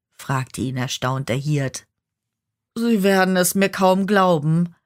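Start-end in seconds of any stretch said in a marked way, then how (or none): 2.8-4.8 klagend, leidend und etwas höher; jammernd. Acted. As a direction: der Teufel klagt dem Hirten sein Leid. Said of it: "jammerte der Teufel". (leicht jammernder Ton)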